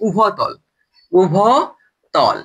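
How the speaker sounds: উভতল stretched very slowly, syllable by syllable; drawn out. Shown as a demonstration. Teacher drilling a new term for students, very slow. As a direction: spell the word out with your voice: উ-ভ-তল. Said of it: "teacher drills the new term".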